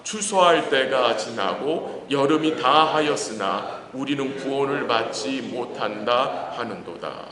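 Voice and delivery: slow, measured scripture recitation; reading aloud together. Real, not acted. Preacher leading congregation in Jeremiah's verse, reading aloud. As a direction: lead a congregation through the verse, unhurried. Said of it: "한번 같이 읽을까요".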